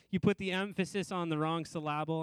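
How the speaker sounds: "emphasis" and "syllable" stressed on their second syllables; joking misplaced stress. Retold or imitated. Preacher repeating father's joke, "emphasis" and "syllable" wrongly stressed on second syllables. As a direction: say em-PHA-sis and syl-LA-ble for "emphasis" and "syllable". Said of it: "would always make a joke".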